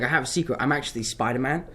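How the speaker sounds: put-on his own English accent, lightly dropped back in; English accent, matter-of-fact, on I have a secret. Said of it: "then I started doing an English accent".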